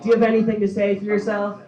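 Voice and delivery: mock-formal judge voice; stern judge. Judge addresses defendant at sentencing.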